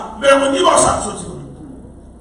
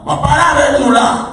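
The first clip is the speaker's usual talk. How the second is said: raised preaching voice, higher; loud urging; 5 semitones higher, 5 dB louder than usual. Real, not acted. Preacher raising voice to youth in church, loud urging. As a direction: push it out to the church.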